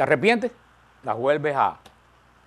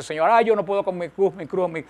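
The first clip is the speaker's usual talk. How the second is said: mild mock complaining; 2 semitones higher than usual. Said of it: "que estaba quejándose".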